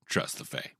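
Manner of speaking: hushed, breathy warning whisper; spooky whisper to the listeners, never trust them; ominous whisper. Acted. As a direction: whisper it like a dark secret. Dramatic warning about the Fae.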